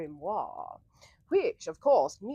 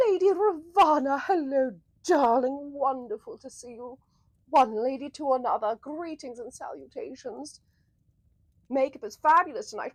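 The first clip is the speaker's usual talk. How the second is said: gushing greeting; 4 semitones higher, 5 dB louder than usual. Real, not acted.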